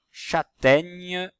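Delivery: CHÂTAIGNE high, loud, drawn out; teacher's emphatic CHÂTAIGNE with a clear ch; sounding out. Shown as a demonstration. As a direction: stretch CHÂTAIGNE for careful listening. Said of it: "la syllabe ja".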